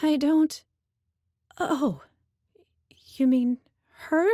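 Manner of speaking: high, loud, flustered answer; frightened. A narrator's reading. Girl answering the Minotaur, high and panicked. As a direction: blurt it out in panic.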